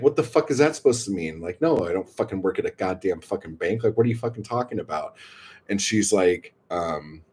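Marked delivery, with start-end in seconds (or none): 0.0-5.2 fast, retold indignant protest; mildly indignant, words tumbling out quickly. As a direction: rattle it off in mock outrage. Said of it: "I get all fucking indignant".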